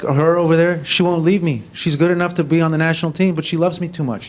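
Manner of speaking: lifted, teasing coach voice; mocking coach voice. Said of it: "He's like".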